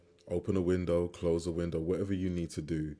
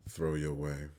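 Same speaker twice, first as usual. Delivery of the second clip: calm, measured meditation lead with long pauses; guided meditation. Real, not acted. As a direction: guide them gently through each breath, leaving space between phrases.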